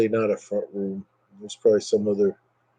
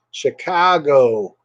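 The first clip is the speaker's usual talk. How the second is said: attempted Chicago accent; 3 semitones higher, much slower than usual. Shown as a demonstration. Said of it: "Attempted Chicago accent".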